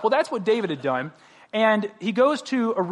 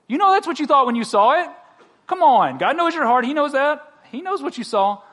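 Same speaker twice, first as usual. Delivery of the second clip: preaching louder; 7 semitones higher, 5 dB louder than usual. Real, not acted. Preacher presses congregation.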